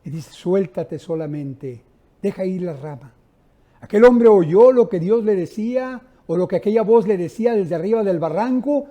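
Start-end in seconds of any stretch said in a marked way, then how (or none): 0.3-3.1 voice from heaven. Retold or imitated. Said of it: "se oye la voz del cielo".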